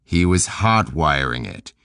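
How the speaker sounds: "hot wiring" said slowly and deliberately for someone who missed it; slow, spelled-out repeat. Shown as a demonstration. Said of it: "What the hell are you talking about?".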